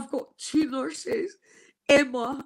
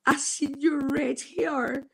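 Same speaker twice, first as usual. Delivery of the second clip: tearful. Real, not acted. Quoting herself, crying.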